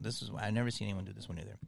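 quick hushed whisper. Real, not acted. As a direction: whisper it fast, like a secret. Teasing the next impression.

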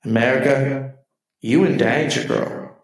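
put-on lightly sassy "America, you in danger, girl"; mock warning to the country; a hint of a psychic's warning; sassy Ghost quote. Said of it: "That's what I'd like to say to our country".

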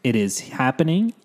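room echo, no soundproofing; echoey studio. Real, not acted. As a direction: talk in a bare echoey room. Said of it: "as you can hear from the echo".

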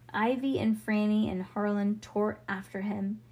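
plain reading voice

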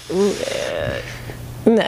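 low mock noise of distaste; disgusted grunt. Host imitating Swedes behind your back, mock disgusted grunt. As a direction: make a low, grumbling noise of disapproval.

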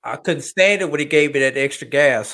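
loud, animated mock complaint; animated player's quote. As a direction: play a former player griping out loud. Voices a former player looking back.

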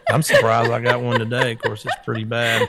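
raspy, lost voice; hoarse voice. Real, not acted. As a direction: talk with a sore throat. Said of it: "you didn't have a voice".

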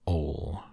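"All" drawn out and set apart; solemn, isolated "All"; great emphasis. A narrator's reading. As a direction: lean weightily on "All". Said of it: "repeated with great emphasis".

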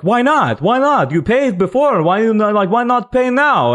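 high-pitched angry demands, imitated. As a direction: pester indignantly in a high voice. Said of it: "like, angry at me".

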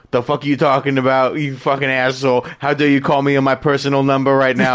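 imitating an outraged, swearing brush-off; mock furious reply to an unwanted phone call; angry retort. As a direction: snap back as if insulted by the call. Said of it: "And he's gonna be like".

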